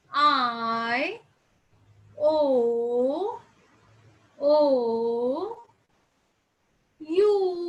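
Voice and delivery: slow drilled vowel sounds; vowel demo. Shown as a demonstration. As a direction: model each vowel clearly for the class. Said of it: "कौन-कौन से उच्चारण सीखे थे?".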